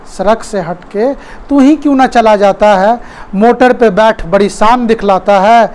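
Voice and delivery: lilting declamation of satirical verse; poem recitation. Acted. Teacher reciting the road scene, verse recitation. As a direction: read it as verse, pausing at each line.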